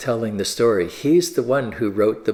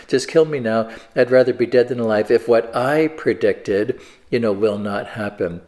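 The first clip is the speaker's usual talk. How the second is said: put-on sulky petulant child. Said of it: "kind of sulky, petulant child".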